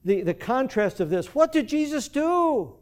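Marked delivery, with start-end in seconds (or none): 1.3-2.8 rhetorical question. Real, not acted. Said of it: "rhetorical question".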